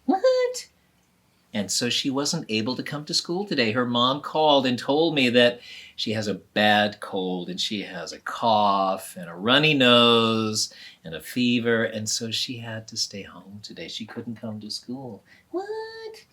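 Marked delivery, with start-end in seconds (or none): 0.1-0.7 very high, squeaky shocked cry; shocked what. Acted. Shocked boy. 15.5-16.3 very high, squeaky shocked cry; shocked what. Acted. Shocked boy.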